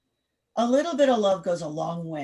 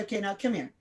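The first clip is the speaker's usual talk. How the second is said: soothing; 5 dB quieter, faster than usual. Shown as a demonstration. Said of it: "You say".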